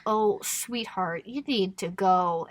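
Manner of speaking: slow, softened imitation of gentle pity; mock soothing. Recapper voicing onlookers to upset Zelly, mock soothing. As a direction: draw out the endearment, lightly condescending.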